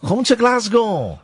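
put-on slow, high Cockney accent through a laugh. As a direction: ham up a Cockney "Come to Glasgow". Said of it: "in a Cockney accent".

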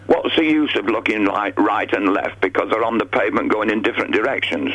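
echoey phone line; cave echo. Real, not acted. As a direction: voice echoing like in a cave. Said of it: "give your phone a hit".

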